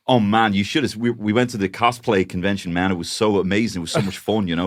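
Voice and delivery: gushing Dubliner with American TV twang; Dublin transatlantic accent. Retold or imitated. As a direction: imitate an Americanised Dublin geek enthusing. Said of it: "that weird Dublin transatlantic accent".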